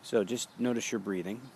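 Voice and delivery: calm, even meditation guidance; walk them gently through each breath; guided meditation. Acted. Teacher guiding students through their breathing, in a calm meditation voice.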